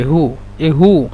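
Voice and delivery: হু stretched out slowly, syllable by syllable; slow drawn-out hu. Shown as a demonstration. Teacher to Bengali learners of Arabic, slowly stretching হু. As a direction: drag out হু for the learners. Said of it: "এই যে হু".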